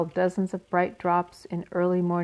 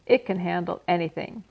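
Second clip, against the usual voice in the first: taunting rat. Acted. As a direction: sneer the bad news with relish. Templeton taunting Wilbur.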